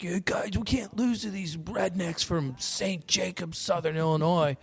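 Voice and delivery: retold taunt from a rival player; mock rival's taunt. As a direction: imitate the opposing player's taunt, lightly. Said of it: "Pegasus players yelling".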